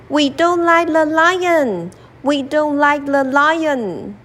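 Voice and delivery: the animals sulking together; lightly voiced animals refusing to help; grumbling animals.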